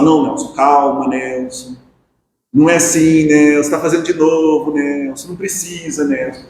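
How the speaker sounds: calming self-talk, level and restrained; autoconversa apaziguadora. Acted. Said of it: "utiliza até a terceira pessoa pra falar consigo mesmo". (conversa interna calma, tentando se conter)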